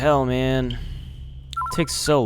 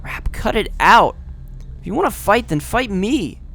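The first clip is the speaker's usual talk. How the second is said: put-on higher girl's voice; 8 semitones higher, 3 dB louder than usual. Girl stops the fight.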